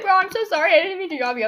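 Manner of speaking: high, loud imitation of a friend apologizing; friend's frantic apology. Friend apologizing for dropping her, mildly frantic. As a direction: lightly mimic a flustered apology.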